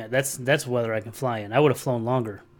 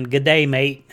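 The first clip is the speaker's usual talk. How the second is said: put-on crappy Australian accent; 6 dB louder, slower than usual. Streamer signing off a viewer in a crappy Australian accent. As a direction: put on a hammy, half-hearted Australian accent. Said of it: "That's my really crappy, uh, accent".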